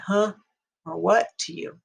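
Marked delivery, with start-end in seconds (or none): 0.0-0.3 puzzled "Huh?" from a listener who didn't catch it; a light, rising "Huh?" of not understanding; confused listener. Retold or imitated. Confused listener who misheard the stress, asking puzzled. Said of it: "that's why people sometimes say". 1.0-1.3 short rising "What?" as if you didn't catch it; confused listener. Retold or imitated. Listener who couldn't follow, asking a puzzled "What?". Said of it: "that's why people sometimes say".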